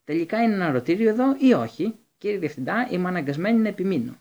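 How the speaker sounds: high loud outraged complaint; furious nurse. A narrator's reading. Madam Pomfrey furious with the headmaster, high and loud. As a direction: demand they respect the ward. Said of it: "σε έξαλλη κατάσταση".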